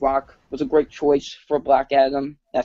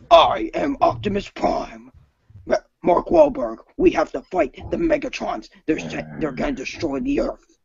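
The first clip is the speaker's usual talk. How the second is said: raised, declaiming robot-leader impression; Optimus Prime; 9 semitones higher than usual. Robot leader warning of Earth's danger, declaimed in raised pitch. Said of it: "do an impression of Optimus Prime".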